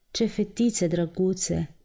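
put-on slow, softened pity for the girls; sincere pity. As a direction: coo it with real compassion. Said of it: "cu o milă sinceră". (milă sinceră, rar și blând)

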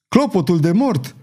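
lightly acted cry of alarm; a touch of a roar as the bell tolls. A narrator's reading. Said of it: "răgni el".

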